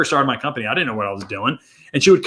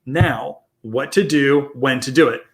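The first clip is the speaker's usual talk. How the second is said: call to action read; much slower than usual. Shown as a demonstration. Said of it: "easiest thing you can do is say".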